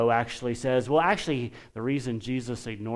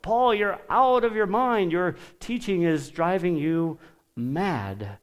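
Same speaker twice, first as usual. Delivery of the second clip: crying out; 5 semitones higher than usual. Retold or imitated. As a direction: exclaim it like Festus. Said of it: "Festus basically cries out".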